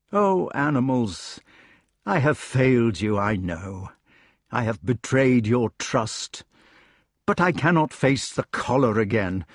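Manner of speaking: subdued, weary confession; regretful king. Acted. King confessing betrayal to the animals, regretful. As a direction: own up to failure, heavily.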